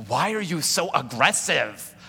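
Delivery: unvoiced hushed whisper; whispered question. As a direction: whisper it like a teasing wife. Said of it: "She's like".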